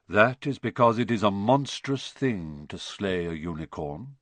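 grave, low centaur; understated ominous explanation; lightly voiced solemn centaur. Firenze solemnly explains to Harry.

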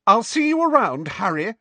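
high, loud, tearful farewell; dramatic. A narrator's reading. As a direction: storm off with a parting shot. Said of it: "she said dramatically".

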